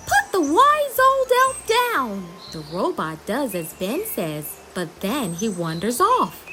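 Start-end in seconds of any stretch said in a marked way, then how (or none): 0.1-2.3 much higher, sharp order; high urgent command. Acted. Ben ordering the robot to release the elf, urgent. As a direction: order it firmly.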